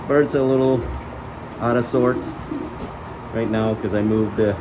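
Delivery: talking through a face mask; muffled voice behind a mask. Real, not acted. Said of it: "Sorry for the muffled, uh, voice".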